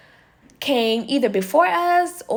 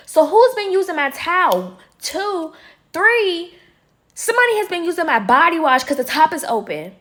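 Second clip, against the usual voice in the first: confronting; 4 semitones higher than usual. Retold or imitated. Confronting the roommate Nene.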